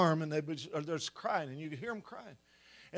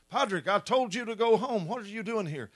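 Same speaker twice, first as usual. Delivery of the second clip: mildly raised, higher-pitched teacher's rebuke; scolding teacher; 4 semitones higher, 5 dB louder than usual. Retold or imitated. Teacher to a boy back at school, mild scolding. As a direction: lightly act out an exasperated teacher. Teacher confronts returning pupil.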